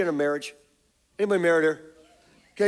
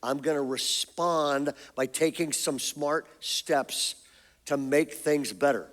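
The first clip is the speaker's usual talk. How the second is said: calm response; 2 semitones lower, 3 dB quieter than usual. Shown as a demonstration. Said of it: "Or you're going to go".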